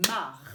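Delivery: "mar" said loud and detached, r sounded; syllable demo. Shown as a demonstration. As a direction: set "mar" apart as one clear syllable.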